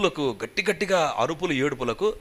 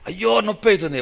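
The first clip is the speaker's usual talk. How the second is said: higher-pitched, mild mock wail; imitated pained crying; 4 semitones higher than usual. Injured woman beside her complaining of pain, imitated pained crying. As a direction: retell a woman moaning of pain, lightly acted. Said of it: "ఆమె ఏడుస్తుంది".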